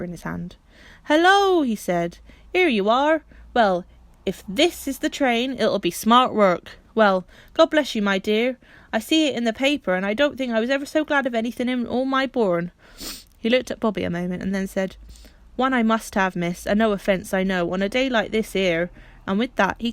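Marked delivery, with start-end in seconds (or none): 1.0-1.6 a loud, high, booming hello; the porter hails her across the platform; big excited greeting from Perks; Perks' hearty hello. Acted. Perks bursting in. 2.5-12.7 louder, beaming working-man voice; an overjoyed porter blessing the girl; a rough, glad country porter; hearty porter Perks. Acted. Perks congratulates Bobby. 15.5-18.9 bashful hearty Perks. Acted. Perks asks for a kiss.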